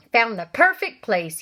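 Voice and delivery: slow, pleased announcement; a hint of a smug uncle; Uncle Vernon. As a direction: savour each word like a smug uncle.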